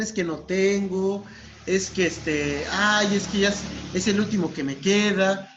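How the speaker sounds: whiny excuses. Acted. Patients dodging a cigarette request, whiny and hesitant. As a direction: make hammed-up excuses, stretching the words.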